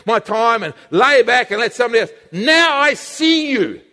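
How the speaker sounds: unmask the tempter with growing force; rising confrontation. Acted. The believer exposing the tempter, building to fierce accusation. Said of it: "He says".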